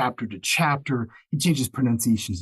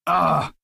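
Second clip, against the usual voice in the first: higher, louder mock groan; exasperated groan; 5 semitones higher, 5 dB louder than usual. Narrator regrets a voice that wreaks havoc, exasperated mock groan. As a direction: groan at the strain on your voice. Groans over voice-wrecking gravelly choice.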